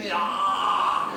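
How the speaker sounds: loud "ew, ah" noise; disgusted groan. Acted. Comic mid-rant about a politician, disgusted groan. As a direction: let out a loud noise of revulsion.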